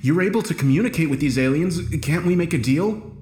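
desperate plea. A narrator's reading. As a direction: press anxiously for a way out. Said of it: "I asked desperately".

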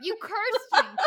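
high, loud laughing accusation. Real, not acted. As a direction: laugh it out in mock blame. Laughing after stumble.

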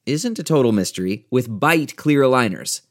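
smooth sponsor read voice. Acted. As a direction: read it like a polished radio ad.

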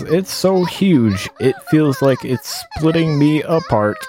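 reading while laughing helplessly; laughing through reading. Real, not acted. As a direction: barely hold back laughter. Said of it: "She sounds like a robot now".

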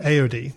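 A O D run together as one name: ay-oh-dee; settled pronunciation. Shown as a demonstration. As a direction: say A O D as a surname, ay-oh-dee. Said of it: "That's what we're gonna go with".

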